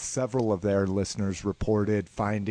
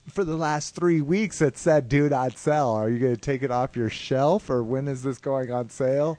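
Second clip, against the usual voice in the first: mildly exasperated, higher-pitched retold complaint; exasperated customer; 5 semitones higher than usual. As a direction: challenge the store clerk, half in earnest. Retelling his complaint to store staff.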